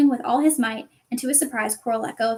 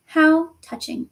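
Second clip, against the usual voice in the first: slow, higher mocking hiss; 5 semitones higher, 4 dB louder, slower than usual. Voldemort mocking Harry's bravery, slow sneering hiss. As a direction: sneer it out slowly. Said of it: "it hissed".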